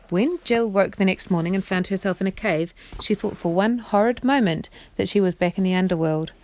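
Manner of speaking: expressive bedtime story narration; measured storyteller voice; reading to children. A narrator's reading. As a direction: read it aloud as a storybook for children. Reads story aloud to children.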